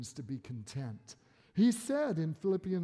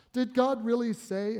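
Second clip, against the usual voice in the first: sly mocking tempter; 5 semitones higher, 5 dB louder than usual. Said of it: "here's how he twists it".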